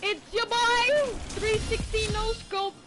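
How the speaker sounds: hyped gamer bro. Real, not acted. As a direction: hype it up like a streamer. Gamer hype catchphrase.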